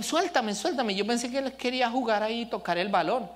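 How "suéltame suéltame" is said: put-on little boy. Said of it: "Danielito estaba pequeño y me dice".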